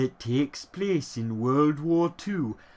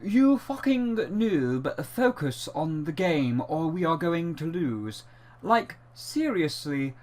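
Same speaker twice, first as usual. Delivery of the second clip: put-on posh British accent; 5 dB quieter than usual. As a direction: read the insults in posh British. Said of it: "I have to read it in my most posh British voice".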